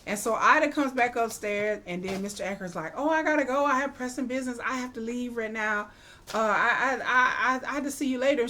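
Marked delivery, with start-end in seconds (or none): 2.9-8.4 mildly hammed-up flustered stammer, pitched up; flustered excuse-making. Suitor excusing himself to Ida, mock flustered. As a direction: imitate someone scrambling for a way out.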